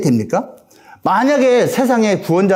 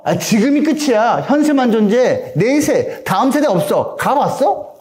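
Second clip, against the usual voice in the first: higher-pitched mock disbelief; dismissive skeptic; 4 semitones higher than usual. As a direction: act out a doubter scoffing at the afterlife. Acting out people denying an afterlife. (따져 묻는 회의적인 말투)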